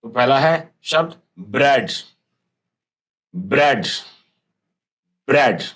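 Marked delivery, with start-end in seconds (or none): 1.4-5.6 said aloud. Shown as a demonstration. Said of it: "Now say aloud".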